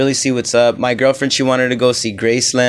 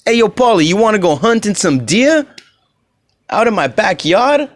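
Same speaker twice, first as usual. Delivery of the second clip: mock Memphis Italian accent; 8 semitones higher than usual. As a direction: drag it out like a country Italian guy. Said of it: "that stupid accent that they have".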